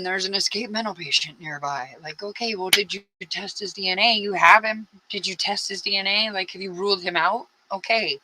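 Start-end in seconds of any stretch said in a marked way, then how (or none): 2.0-7.5 pitched up, pressing questions at the police; exasperated demand. Pretend. Venting at the sheriff's office over untested DNA, exasperated and pushy. 7.7-8.2 a raised, dismissive okay; sarcastic okay. Pretend. Mocking the police after demanding the DNA test, sarcastic.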